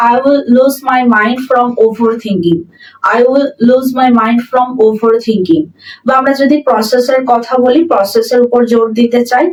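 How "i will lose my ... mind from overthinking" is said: very slow, word by word dictation; slow model sentence. Shown as a demonstration. Teacher reading the example sentence aloud to students, very slow and clear. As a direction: spell it out slowly for learners. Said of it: "এই সেন্টেন্সটা এরকম হবে".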